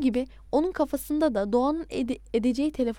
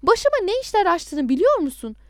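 raised, heated accusation; angry shout; 7 semitones higher, 6 dB louder than usual. A narrator's reading. Adnan blaming the caller for his troubles, shouting. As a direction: shout the reproach, pitch lifted. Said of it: "diye bağırdım".

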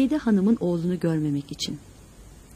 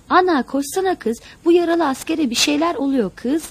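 put-on high, urgent child's cry for help; acted frantic shout, higher and louder; 6 semitones higher, 4 dB louder than usual. A narrator's reading. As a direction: call out in alarm for mother. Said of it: "canhıraş haykıran küçük Lütfü'nün sesiyle".

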